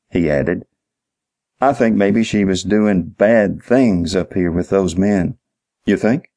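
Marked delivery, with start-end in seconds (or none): 1.6-5.4 lightly voiced simple witness, slowly offering a theory; a hint of a slow-witted clerk, drawn out; dim-witted night manager. Clerk shares his suspicion with detective, mildly dim-witted. 5.9-6.3 dry mock question, slightly higher; understated sarcasm at the obvious; sarcastic. Detective answers the clerk's obvious remark, sarcastic. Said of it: "Dean said sarcastically".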